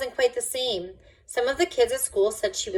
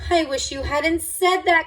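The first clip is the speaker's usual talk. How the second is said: higher, louder groaned complaint; groaning complaint; 7 semitones higher, 5 dB louder than usual. A narrator's reading. Camilla groans at the therapist, dismayed. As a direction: moan it in dismay. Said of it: "Camilla groaned".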